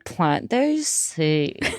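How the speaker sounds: slow, drawn-out frat bro delivery; lazy dude-bro drawl. Pretend. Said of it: "You sound like a frat bro".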